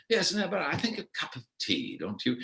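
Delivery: a hint of a languid tea-break plea; gently nudging Guy to stop for tea; the speaker wanting tea.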